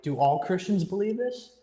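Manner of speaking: incredulous question, pitch rising at the end; mild disbelief. Retold or imitated. Young believer questioning what all Christians believe, incredulous. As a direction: ask it as a mildly stunned retold reaction.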